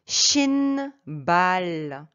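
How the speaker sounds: 신발 slowly, starting with SH; slow, drawn-out model of 신발; SH sound. Shown as a demonstration. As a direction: stretch both syllables of 신발, SH at the start. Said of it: "ça se prononce sh".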